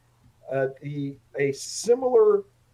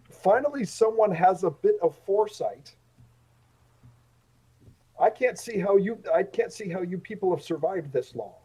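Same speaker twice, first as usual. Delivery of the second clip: grudging, mildly exasperated complaint; sullen; 2 semitones higher than usual. Acted. Sullen traveler finally handed trail rations, lightly voiced grumbling. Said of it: "quite sullen now".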